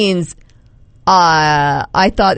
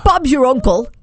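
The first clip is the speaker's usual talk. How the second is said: higher-pitched amateur British accent; mock British, pitched up; attempted British accent; 5 semitones higher than usual. Shown as a demonstration. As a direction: quote it as a would-be Brit. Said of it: "say these all with a British accent".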